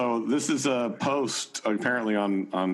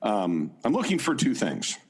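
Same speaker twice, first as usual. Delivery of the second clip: John Dehlin voice; 3 semitones higher than usual. Acted. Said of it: "in your John Dehlin voice".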